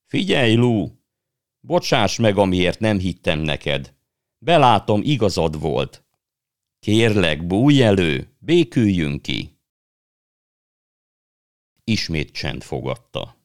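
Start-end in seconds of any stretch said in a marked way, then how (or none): 0.0-9.6 high, loud apologetic calling, slowing at the end; boy calling out an apology to his sister; pleading shout. Acted. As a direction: beg her loudly to come out. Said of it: "Megint kiabálni kezdett".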